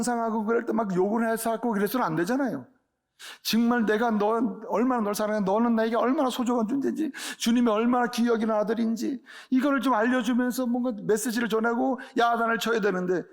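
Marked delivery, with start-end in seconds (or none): 3.4-13.2 fervent preaching. Real, not acted. Impassioned plea about children.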